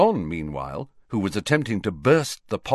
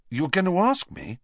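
higher, startled and hopeful; suddenly different voice; 8 semitones higher than usual. A narrator's reading. Ron startled that Hermione would invite him, surprised. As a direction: drop the sneer, caught off guard. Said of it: "in a completely different voice".

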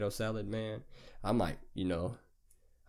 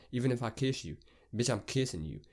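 ordinary talk

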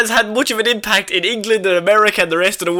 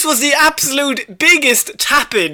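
higher, through bursts of laughter; laughing exasperation; 5 semitones higher than usual. Real, not acted. Podcast host ranting to co-host about casting, laughing exasperation. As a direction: laugh while declaring it, landing hard on the last word. Cracking up over an obvious casting choice.

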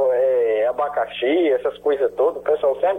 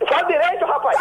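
angry shout; 10 semitones higher than usual. Real, not acted. Victim shouts at the taunting prank caller. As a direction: yell it at him in real rage.

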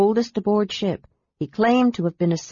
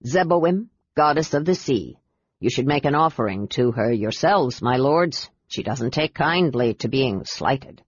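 ship captain; 3 semitones lower than usual. Acted. Captain's voice, warning.

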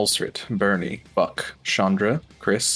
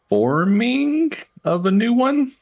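excited; 5 dB louder than usual. Real, not acted. Dramatic recap emphasis.

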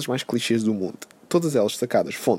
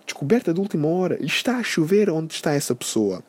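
mock amazement; 5 semitones higher than usual. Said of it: "há pessoas que comentam".

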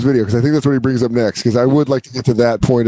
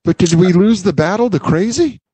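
put-on bewildered old-timer; 7 semitones higher than usual. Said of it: "where he's like".

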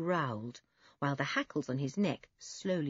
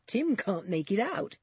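amused laugh; 6 semitones higher than usual. A narrator's reading. Julian watching Timmy puzzle over the piglet, amused laugh. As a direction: laugh lightly, then speak higher. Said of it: "Julian laughed".

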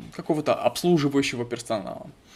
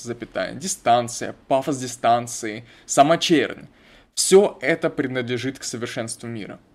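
dictating; 3 dB louder than usual. Shown as a demonstration.

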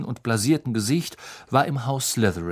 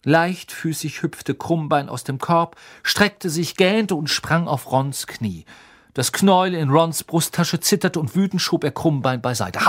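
ordinary delivery

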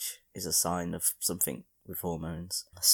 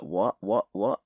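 mock-belligerent challenge, rising at the end; mock aggressive; 5 semitones higher, 5 dB louder than usual. Podcaster imagining snapping at anyone else's remark, mock aggressive. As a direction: square up for a pretend fight. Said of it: "I'd lose my shit".

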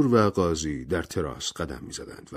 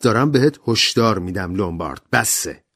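angry warning; 2 semitones higher, 4 dB louder than usual. Acted. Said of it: "بلور با عصبانیت گفت".

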